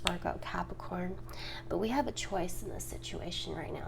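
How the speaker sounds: ordinary talk, nothing marked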